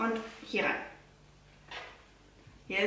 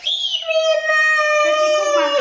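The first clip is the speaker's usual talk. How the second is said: high coaxing call; 8 dB louder, much slower than usual. Real, not acted. Mother reacts to her crying toddler.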